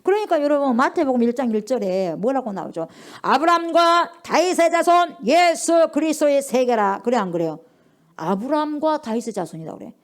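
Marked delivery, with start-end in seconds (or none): 3.2-7.0 slow, loud solemn recital; high, measured proclamation; scripture recitation. Acted. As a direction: intone the verse slowly. Reciting Matthew 1:1.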